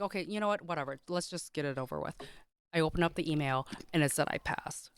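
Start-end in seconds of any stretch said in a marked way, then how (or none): 0.0-2.1 soft, muttered self-talk; quiet resignation. Retold or imitated. Student to herself before opening the email, quietly resigned. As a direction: brace yourself under your breath. Bracing to open results email.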